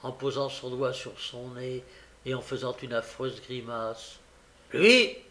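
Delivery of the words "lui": sharp high surprised cry; exclaiming. A narrator's reading. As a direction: jolt up in disbelief. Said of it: "s'écria Sikes".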